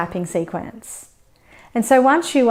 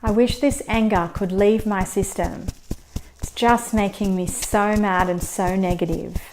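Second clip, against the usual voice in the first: understated demo anger, slow and heavy; slow, mock angry venting. Shown as a demonstration. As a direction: vent the anger slowly like a practice script, hammed-up. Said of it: "I think I sounded pretty angry".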